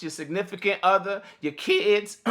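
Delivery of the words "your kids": voice cracking. Real, not acted. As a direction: voice cracks on the word. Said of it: "My voice is cracked".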